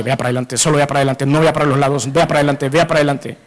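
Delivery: a controlling husband's low repeated order; mock stern order. Jealous husband orders wife.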